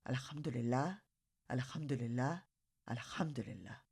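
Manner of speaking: softly murmured prayer, fading to almost nothing; soft whisper. A narrator's reading. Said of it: "grandmother softly whispered".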